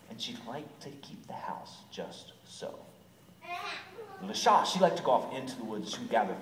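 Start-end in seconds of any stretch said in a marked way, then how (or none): 0.1-2.8 soft, whispery narration; hushed storytelling. A narrator's reading. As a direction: drop to a near whisper. Storyteller hushes the cottage scene.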